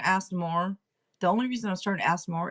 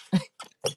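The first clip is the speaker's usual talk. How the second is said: short laugh. Real, not acted. Psychic after remarking on staring in deep thought, short laugh. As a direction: let a short laugh slip out.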